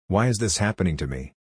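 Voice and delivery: whiny, self-pitying question. Shown as a demonstration. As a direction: whine it out like a victim. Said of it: "Add the whiny voice".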